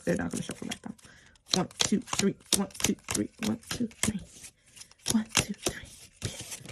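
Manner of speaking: soft, fading whisper count. Real, not acted. Vlogger counts the card cuts in a whisper. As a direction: count under your breath, slowing down.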